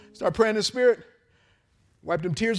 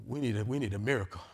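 quiet plea; 7 semitones lower, 7 dB quieter than usual. Retold or imitated.

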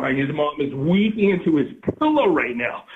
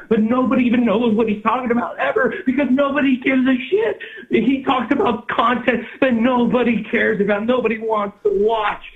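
ranting shout; 7 semitones higher, 4 dB louder than usual. Acted.

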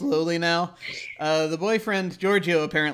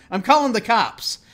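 louder, higher indignant shout; mildly raised threat; 5 semitones higher, 7 dB louder than usual. Acted. Man who threw the punch threatening his victim, indignant. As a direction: call it out as an angry bystander. Angry bystander threatens police.

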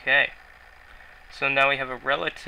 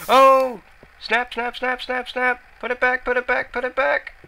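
high, loud burst of alarm; panicked outburst; 12 semitones higher, 12 dB louder than usual. Real, not acted. Player startled while digging, scrambling to cover it, panicked. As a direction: yelp it in rapid, panicky repeats.

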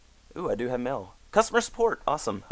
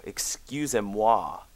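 French accent; slower than usual. Shown as a demonstration. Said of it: "That's French, by the way".

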